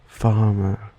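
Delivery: farmer with a British "er" ending; British accent. Shown as a demonstration. Contrasting Australian with British accent, "er" ending. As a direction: say farmer as British "fah-muh". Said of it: "In a common British accent".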